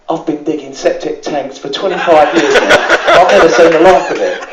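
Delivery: can't hold back a laugh on the punchline; laughing through the quote. Retold or imitated. Joke teller laughing at his own punchline to the crowd.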